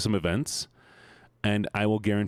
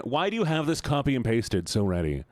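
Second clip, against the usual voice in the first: exasperated question; 2 semitones higher than usual. Real, not acted. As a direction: question chat in disbelief. Reacting to chat's prepared copypasta.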